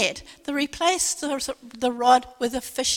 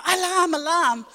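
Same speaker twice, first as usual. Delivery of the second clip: alarm call; 4 semitones higher, 4 dB louder than usual. Retold or imitated. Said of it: "you've got to say, "Alarm, alarm".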